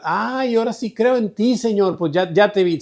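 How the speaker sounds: high-pitched, hurried mock exclamation; put-on eager cry of belief; mock belated believer. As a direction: act out someone suddenly convinced, pitch jumping up. Mimics a too-late believer seeing Christ.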